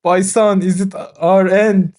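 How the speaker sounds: a laughing, hammed-up doomsayer voice; conspiracy theorist voice. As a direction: crackpot voice breaking into laughter. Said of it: "I love your crackpot conspiracy theorist voice".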